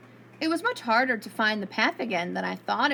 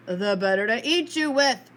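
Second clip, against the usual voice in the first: roaring; 4 dB louder than usual. Acted. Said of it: "roared the wolf".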